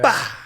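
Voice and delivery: short burst of a shot; imitated gunshot. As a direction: blurt out a shotgun blast. Imitates shotgun firing bird shot.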